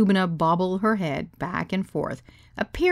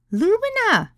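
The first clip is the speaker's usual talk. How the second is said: high, drawn-out coaxing of a name; soothing; 4 dB louder, slower than usual. Acted. Katie calming an objecting guest, high soothing voice. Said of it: "Katie said soothingly".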